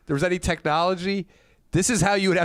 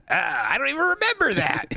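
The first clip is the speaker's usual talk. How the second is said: high-pitched quoted comedian; Jim Painter; 9 semitones higher than usual. Retold or imitated. Comic quoting a fellow comedian's reply, imitated high voice. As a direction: lift the voice high to imitate him. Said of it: "I was doing his old bits for him, and he goes".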